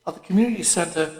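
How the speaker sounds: plain reading voice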